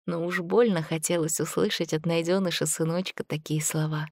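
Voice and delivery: usual speaking voice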